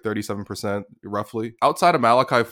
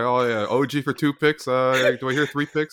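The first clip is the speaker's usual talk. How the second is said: auctioneer voice; 3 semitones higher than usual. Retold or imitated. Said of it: "I sound like an auctioneer these days".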